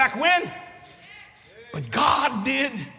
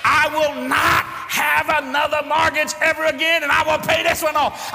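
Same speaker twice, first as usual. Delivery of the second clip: hollering; 3 semitones higher than usual. Retold or imitated. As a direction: holler it down the devil. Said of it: "I hollered louder than he did".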